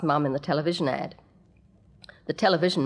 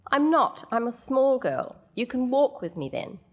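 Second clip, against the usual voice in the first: put-on whiny small child; 7 semitones higher than usual.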